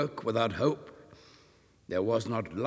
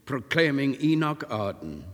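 ordinary delivery

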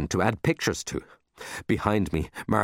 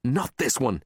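higher-pitched complaint; crying out in protest; 5 semitones higher than usual. Acted. Boy rejecting the romance book, crying out. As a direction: object in mild dismay. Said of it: "he cried".

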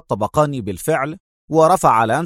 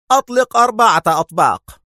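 loud, high shouted command; shouted order; 9 semitones higher, 4 dB louder than usual. A narrator's reading. Lancelot shouting at the trap thrower, loud high order. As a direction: bark the order across the range. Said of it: "ثم صاح في قاذف الأطباق".

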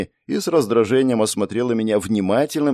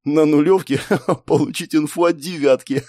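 higher voice breaking into a laugh; laughing disbelief; 6 semitones higher than usual. A narrator's reading. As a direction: giggle through the words.

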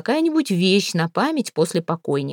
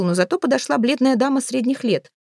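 plain reading voice

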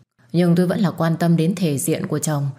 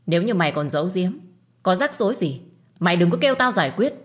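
stern warning; 3 semitones higher, faster than usual. Acted. Mother warning Hương to tell the truth, stern and fast. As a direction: press her to confess, firmly.

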